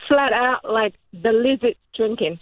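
carefully enunciated Aussie attempt; Australian accent. Shown as a demonstration. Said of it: "good enunciation".

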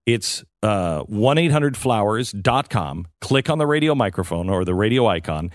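upbeat sponsor pitch, emphatic at the start; ad read. Acted. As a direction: sell it like a live radio ad.

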